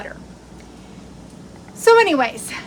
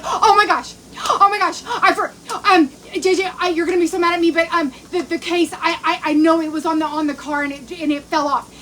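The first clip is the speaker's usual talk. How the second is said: retold panic; 3 semitones higher than usual. Confessing to J J she lost the case, panicked. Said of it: "I go into freaking panic mode".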